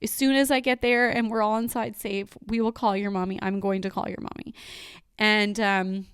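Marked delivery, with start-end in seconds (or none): 0.0-4.5 reassuring. Retold or imitated. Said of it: "best job in reassuring her".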